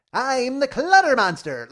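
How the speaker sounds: huge, high, drawn-out cartoon monster roar; loud hammed-up monster announcing itself; stupid monster voice. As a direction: do a silly cartoon creature at full volume. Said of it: "can do a stupid voice".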